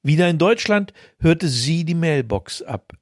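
ordinary delivery, nothing marked

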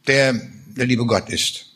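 a reader lightly voicing Beckmann's bitter accusations against God; bitter, understated drama reading of a war-weary soldier; dramatic reading. Reads Beckmann and God dialogue.

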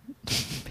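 breathy suppressed giggle; stifled giggles. Real, not acted. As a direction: hold back a giggle. Host trying not to laugh. (unterdrücktes Kichern)

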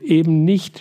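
puffed out through a fit of laughter; a touch of a laugh breaking through; snorting with laughter. Acted. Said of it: "schnauft er mit einem neuen Anfall heraus".

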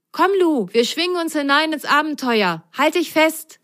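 a little sock ready for adventure; eager little sock. Acted. Ise urges Lu onto the vine, high and eager.

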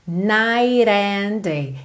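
slow "Night and day" with a flapped T; tapped linking T. Shown as a demonstration. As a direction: tap the T of "Night" into "and", like "nigh-rand". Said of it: "ele usou rarará pra juntar night no and". ("Night and day" com T batido ligando ao "and")

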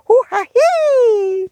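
high breathy squeaky worm whisper; a tiny creature's airy squeak; worm noise. Acted. Worm speaks.

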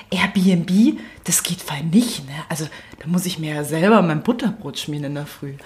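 whispered, fussy mom quote; hushed mock of a spoiled mother; imitating mom. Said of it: "weil sie sagt".

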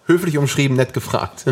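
amused, laughing remark. Real, not acted. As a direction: laugh while teasing. Laughing at self-promotion joke.

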